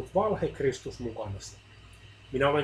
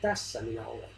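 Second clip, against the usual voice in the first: softer, gentle reply; quiet voice; 4 semitones lower, 6 dB quieter than usual. A narrator's reading. Christ answers the suffering man, quiet voice. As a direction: speak it softly, once more. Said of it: "Hiljainen ääni kuului uudelleen".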